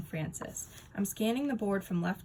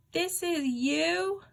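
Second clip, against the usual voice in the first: drawn-out, much higher disbelief; slow surprised question; 9 semitones higher, 4 dB louder, much slower than usual. Acted. Nate amazed at the secretary's baby photo, slow and high. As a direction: stretch it out in amazement.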